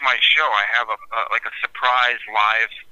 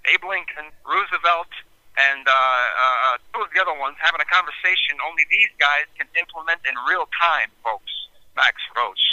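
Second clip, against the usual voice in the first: DJ voice; 3 semitones higher than usual. Shown as a demonstration. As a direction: introduce the jazz track like a DJ. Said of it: "give me your D J voice".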